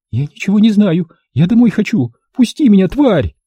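high, rising frantic plea; woman struggling to get free, frantic; hysterical woman. A narrator's reading. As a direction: panic and lash out. Hysterical woman begs to leave.

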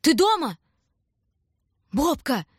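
loud, high call up a dark stairwell. Acted. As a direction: shout up the stairs for his little brother. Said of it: "крикнул вверх".

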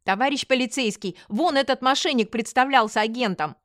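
crying out. Acted. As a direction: call out an accusation to the policeman. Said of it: "закричала я".

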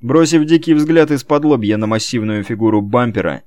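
plain reading voice

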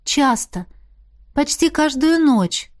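dreamy confession. A narrator's reading. Arnella admits her nightly dreams, dreamily. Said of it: "призналась Арнелла".

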